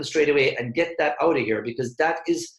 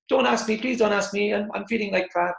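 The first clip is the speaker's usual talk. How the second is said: higher, pleading inner voice; inner dread; 8 semitones higher than usual. Retold or imitated. Salesperson's inner voice dreading the question, pleading. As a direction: voice the hidden worry behind the smile. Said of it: "But inside they're like".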